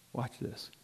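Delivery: breathy whispered aside. Real, not acted. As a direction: whisper it like a secret. Preacher drawing listeners in.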